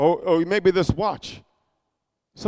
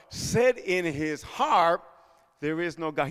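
drawn-out, softer reading of 'Said in his heart, there is no God'; hushed and slow; 3 semitones lower, 6 dB quieter, slower than usual. Acted. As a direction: let 'there is no God' sink away to almost nothing, very slowly. Reads the verse softly, drawn out.

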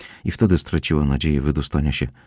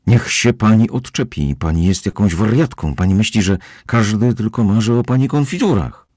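louder, sharper angry snap; angry retort; 6 semitones higher, 4 dB louder than usual. Acted. Bound Kozłowski snaps angrily at the housekeeper. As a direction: spit it at her with contempt. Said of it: "syknął ze złością".

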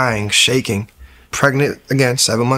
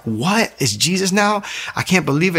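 higher-pitched imitation of a disbelieving girlfriend; incredulous retort; 7 semitones higher than usual. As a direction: mimic her disbelief in a raised pitch. Girlfriend's incredulous reaction voiced.

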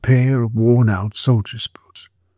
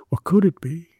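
whisper; 5 semitones higher than usual. A narrator's reading. Whispered wondering thought.

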